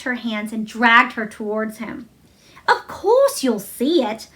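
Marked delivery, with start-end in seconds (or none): 2.7-4.3 indignant snap. Acted. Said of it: "snapped Mary indignantly".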